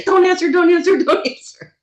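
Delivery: high, loud mock pleading; mock a nervous caller willing nobody to pick up; imitating nervous caller. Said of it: "watched him sit at his desk and say".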